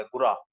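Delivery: ਗੁਰਾ with an open, non-nasal final a; plain ending, no nasal. Shown as a demonstration. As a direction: say ਗੁਰਾ clearly, no nasal twang. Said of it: "ਨਾਸਕੀ ਉਚਾਰਨ ਜਿਹੜਾ ਹੈ ਉਹ ਨਹੀਂ ਕਰਨਾ".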